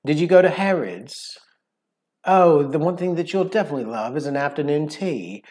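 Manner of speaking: London Queen's English, carefully enunciated; smug London accent, every word precise. Acted. Asking a visitor about Harrods, enunciated London accent. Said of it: "like, enunciated sound".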